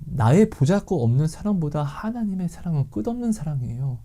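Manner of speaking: usual speaking voice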